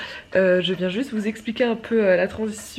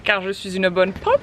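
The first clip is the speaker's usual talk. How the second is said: excited; 3 semitones higher, 5 dB louder than usual. Real, not acted. Lively loud vlog outdoors.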